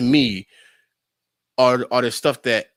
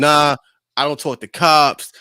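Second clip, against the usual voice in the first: a louder, mock-tough refusal; acting tough; 5 dB louder than usual. Imitating his boy acting tough with the cops. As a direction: puff up like a tough guy. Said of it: "acting tough".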